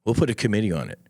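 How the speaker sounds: lightly voiced dismissive official, brushing it off; mocking a bureaucrat. Veteran mocking a Washington official who brushes off psychedelics. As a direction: shrug it off like a DC bureaucrat. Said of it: "I don't need you in D C going".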